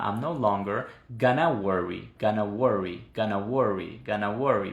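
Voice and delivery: gonna worry in smooth connected rhythm; linked speech. Shown as a demonstration. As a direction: run the sounds together, letra pegada. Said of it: "es como en letra pegada".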